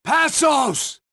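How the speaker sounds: calling out. Acted. Calling for missing partner.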